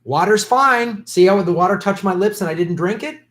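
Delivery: a light mock of a smooth president; mocking Obama. Mocking Obama pretending to drink Flint water, sarcastic. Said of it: "You remember when Obama went".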